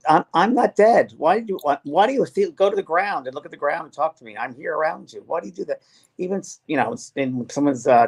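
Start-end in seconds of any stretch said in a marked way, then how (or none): 0.1-5.8 mildly exasperated retold plea, higher at the start; protesting. Spirit children telling grieving parents they're still here, mildly protesting. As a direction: protest like a puzzled spirit child, voiced lightly.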